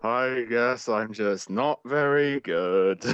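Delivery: slow, drawn-out mock-drunk confession; tipsy apology. Friend continuing the reviewer's retraction, mock drunk. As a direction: drag it out like someone tipsy. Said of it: "clearly a little bit drunk".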